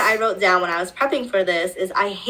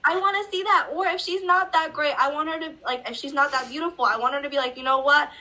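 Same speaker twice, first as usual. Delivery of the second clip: a touch higher, bold self-love; mock empowered girl, pitched up; lightly voiced confident heroine; 4 semitones higher, 3 dB quieter than usual. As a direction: play her proud and sure, lightly. Voicing confident heroine, raised pitch.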